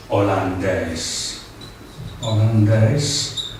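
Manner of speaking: Holandés drawn out slowly; slow model pronunciation. Shown as a demonstration. Teacher modelling a nationality word for learners, slowly. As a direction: say Holandés at half speed for learners.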